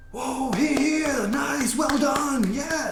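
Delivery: high, excited cheering from the trees; cheering crowd. Acted. GM voicing the cheering creatures above, high and excited. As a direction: cheer them on like an arena crowd. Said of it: "They are cheering like".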